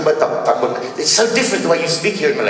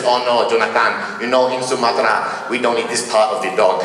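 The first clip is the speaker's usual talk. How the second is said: Sumatran friend; 2 semitones lower than usual. Retold or imitated. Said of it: "looks at me and says".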